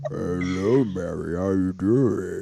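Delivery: voice dropped very low. Showing how a man with the world's deepest voice talked: impression of a very deep voice. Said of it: "that's basically how he talked".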